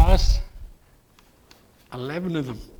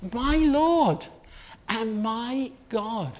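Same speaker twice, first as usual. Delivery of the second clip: slow, hushed wonder; awed confession; 3 semitones higher, slower than usual. Acted. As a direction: let it sink in reverently. Thomas's confession repeated in awe.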